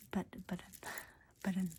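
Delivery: American "button" with T softened towards D; whispered demo of "button" with a D sound; T turned to D. Shown as a demonstration. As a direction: say "button" as if "budden". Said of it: "into the letter D".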